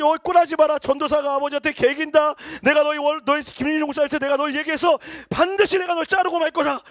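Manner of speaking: loud, high threatening father; a furious father shouting threats; angry father shouting. Retold or imitated. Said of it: "아버지가 또 얘기하는 거야". (아들을 자르겠다고 소리치는 화난 아버지)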